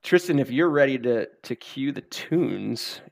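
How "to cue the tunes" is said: hushed dramatic whisper. Pretend. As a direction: breathe it out slowly. Dramatic cue to start music.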